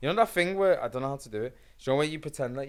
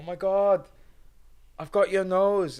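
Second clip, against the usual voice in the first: put-on high, slow teasing kid; playful kid voice; 6 semitones higher, 6 dB louder, slower than usual. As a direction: tease like a kid stealing noses. Acted kid nose trick.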